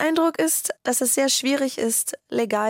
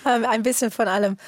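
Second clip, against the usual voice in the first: hoarse from smoke; scratchy voice. Real, not acted. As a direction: speak with a rough, scratchy throat. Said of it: "deine kratzige Stimme leider vom Rauch".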